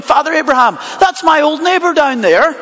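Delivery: a touch of earnest eagerness, voice lifted; Lazarus volunteering. Acted. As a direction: lightly play a keen volunteer pleading to go. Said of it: "as though Lazarus is sort of there volunteering".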